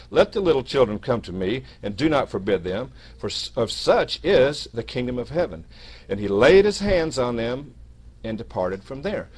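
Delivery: emphatic Bible reading; scripture reading. Acted. Preacher reads Jesus's words to brethren, emphatic scripture reading. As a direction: read the verse out firmly, leaning on key words.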